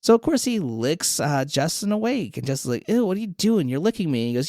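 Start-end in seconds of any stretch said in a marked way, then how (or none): 2.9-4.3 higher, grossed-out complaint; acted squeamish protest; mock disgust. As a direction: recoil from a lick, played lightly. Woken by being licked, disgusted.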